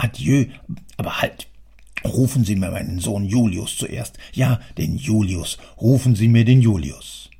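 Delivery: enraged father scolding his three sons; angry father. Acted. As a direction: rant at them, loud and bitter. Boss dismisses clerk, angry.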